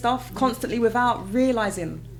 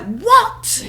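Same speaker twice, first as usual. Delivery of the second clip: high, loud squeal of disbelief; a stunned, laughing What; shocked disbelief; 13 semitones higher, 9 dB louder than usual. Retold or imitated. Told she's discharged, a high shocked What. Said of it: "but I was like".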